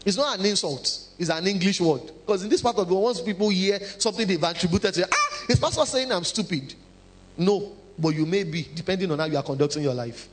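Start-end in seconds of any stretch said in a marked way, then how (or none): 5.1-6.7 laughing mock offense. Offended listener quoted.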